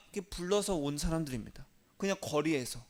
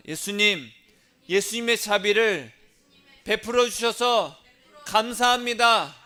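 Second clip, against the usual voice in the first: louder, higher and slow, for the church to echo; call-and-repeat prayer line; 5 semitones higher, 6 dB louder than usual. Shown as a demonstration. Pastor leading the congregation to repeat after him, loud and slow. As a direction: lead the congregation in a loud, drawn-out thanksgiving. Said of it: "따라하겠습니다".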